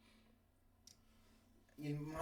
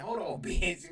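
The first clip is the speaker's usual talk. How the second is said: laughing; 4 semitones higher, 7 dB louder, slower than usual. Retold or imitated. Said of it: "I said".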